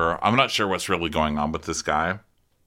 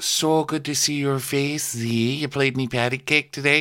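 Captain Sandy; 5 semitones higher than usual. Retold or imitated. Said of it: "Captain Sandy calls Z".

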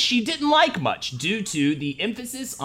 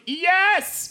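put-on a kid blurting a too-eager yes; squeaky yes. Kid blurts yes to mom, squeaky high. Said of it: "And I was just like".

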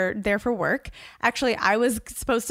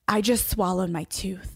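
slow, stunned half-whispered admission; mild retold shock, said slowly; stunned panic. Telling her husband at breakfast, slow stunned panic. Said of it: "and I'm freaking out".

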